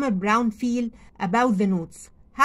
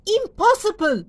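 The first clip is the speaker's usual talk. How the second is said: shocked disbelief; 9 semitones higher, 4 dB louder than usual. Acted. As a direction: gasp it out like you can't believe it. Farmer Brown's disbelief in story.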